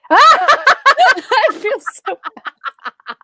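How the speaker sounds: slow, guilty laugh through the words; laughing guiltily. Real, not acted. Admitting she kicked her dog, laughing. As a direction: laugh it out, embarrassed.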